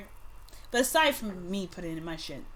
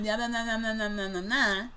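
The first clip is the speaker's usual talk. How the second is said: twin chatter. Retold or imitated. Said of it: "Two of them going like this".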